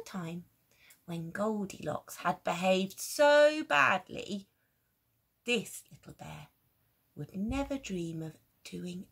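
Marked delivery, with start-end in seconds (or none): 5.4-9.1 soft whisper. A narrator's reading. Narrator confides softly.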